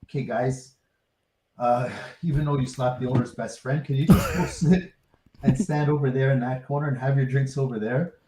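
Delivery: soft, measured mock-courteous request; quietly reasonable, retold with amusement; polite request. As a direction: imitate someone asking calmly and politely. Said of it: "actually politely, politely said".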